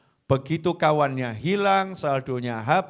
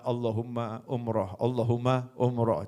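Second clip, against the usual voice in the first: softer, lower repeated murmur; murmured prayer; 5 semitones lower, 6 dB quieter than usual. Acted. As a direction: mutter the prayer while working. Praying while selling peanuts. (gumaman doa pelan)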